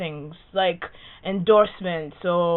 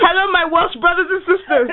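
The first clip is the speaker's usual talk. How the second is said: higher, louder hammed Welsh greeting; Welsh accent; 10 semitones higher, 6 dB louder than usual. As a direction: play a booming Welsh host.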